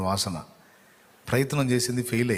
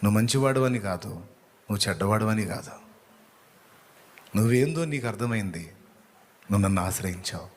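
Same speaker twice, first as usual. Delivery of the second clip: God's reassuring voice. Acted. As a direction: speak as a gentle God comforting a sinner. Preacher voices God's reply. (దేవుని స్వరంలా నెమ్మదిగా, ఓదార్పుగా)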